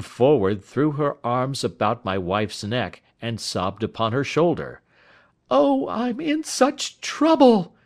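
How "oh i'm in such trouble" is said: high, loud, slow cry of trouble; a frightened woman crying out much higher and louder; distressed cry. A narrator's reading. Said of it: "she cried".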